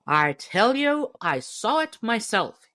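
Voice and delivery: loud, high, indignant yell; angry shout. A narrator's reading. Hunter shouting at laughing loafers, angry shout. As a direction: shout it, stung by their laughter. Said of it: "he shouted angrily".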